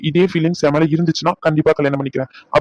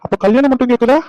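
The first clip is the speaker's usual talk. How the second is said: higher, incredulous comeback; indignant retort; 6 semitones higher than usual. Acted. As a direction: throw the question back at her in disbelief. Indignant retort in lovers' quarrel.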